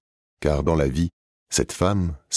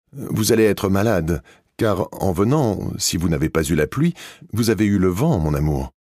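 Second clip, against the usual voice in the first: loud and slow; 4 semitones higher than usual. Acted. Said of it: "a dit très fort".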